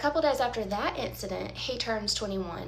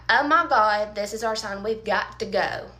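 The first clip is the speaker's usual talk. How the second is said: alarmed exclamation; 7 dB louder than usual. Retold or imitated. Panicked at drunk boyfriend kissing singer.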